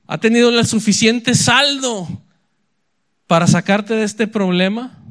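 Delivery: hammed-up royal shout into the lions' den; mock king calling out. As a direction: call down into the pit like the king. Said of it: "y le grita".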